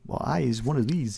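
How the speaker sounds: lightly imitated American twang accent; a friend's American twang, only hinted. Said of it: "in his American best twang".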